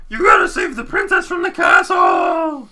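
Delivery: high, loud, slow panicked yell; frantic Toadsworth shout. Acted. Toadsworth screams at Marky to save the princess. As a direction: scream the order like an old steward in a panic. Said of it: "Toadsworth's like".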